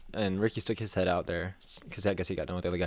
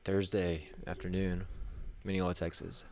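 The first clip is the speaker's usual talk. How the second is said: mood-setting; 5 dB quieter than usual. Pretend. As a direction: set the scene quietly, in short phrases. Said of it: "You are setting the mood".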